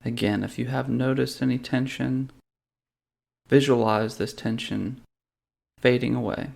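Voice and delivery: calm, measured meditation guide with long pauses; guided meditation. Real, not acted. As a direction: lead them gently through a body scan, unhurried. Leads a guided body-scan meditation.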